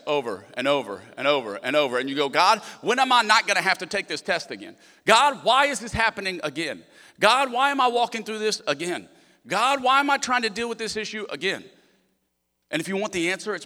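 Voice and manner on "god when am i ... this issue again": exasperated pleading. Retold or imitated. Frustrated believer crying out to God.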